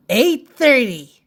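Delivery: punchy call of the hour; crisp announced clock time; time announcement. Acted. Calls out story time.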